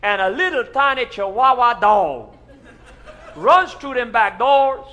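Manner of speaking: loud, high, building preacher excitement; excited tall tale. Acted. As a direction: tell it big and breathless. Pastor continues the tall tale.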